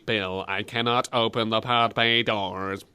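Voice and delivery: low robot computer voice; HAL 9000. Retold or imitated. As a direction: imitate an impassive computer refusing a request. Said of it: "hal nine thousand".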